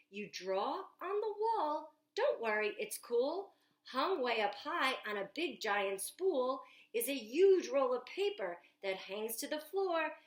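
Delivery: put-on lively picture book read aloud to children; storytime reading. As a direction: read it like story time at the library, bright and eager. Reads Jack's lines aloud.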